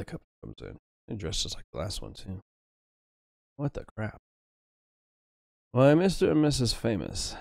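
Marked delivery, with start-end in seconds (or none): 5.7-7.4 high, loud fawning maître d'; snooty waiter. Acted. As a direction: greet the rich guests with gushing delight. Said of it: "says the maitre d'".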